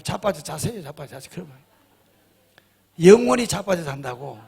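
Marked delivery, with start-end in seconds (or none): 0.0-1.3 blunt 자빠져 자세요 with the stress on 자빠져; mock blunt scolding. Pastor showing the harsh way to tell a member, blunt. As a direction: scold them bluntly, trailing off. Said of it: "그걸 세게 이야기하면".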